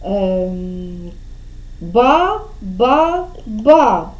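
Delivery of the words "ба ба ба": "ба, ба, ба" as separate beats; reading out syllables. Shown as a demonstration. Teacher giving the game's syllable, "ба, ба, ба" one by one. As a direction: repeat "ба, ба, ба" with gaps between. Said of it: "читати с-, склади, починати".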